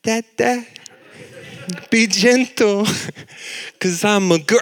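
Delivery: put-on high, pleading little-girl voice; little girl plea. Daughter held overhead pleading with dad, sweet and high. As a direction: beg sweetly to be let down. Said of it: "And she goes".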